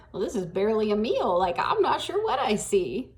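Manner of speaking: put-on smart-alecky teen thinking it; mildly sassy, barely voiced; wisecrack. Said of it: "my wisecrack self".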